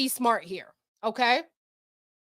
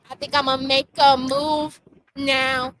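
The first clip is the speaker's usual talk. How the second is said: mocking Cassie; 3 semitones higher, 3 dB louder than usual. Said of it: "'cause you was like".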